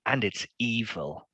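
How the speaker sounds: slow, mildly creepy delivery; a touch of menace, drawn out. Acted. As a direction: say it slowly to unsettle them. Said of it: "he says, in a really creepy way".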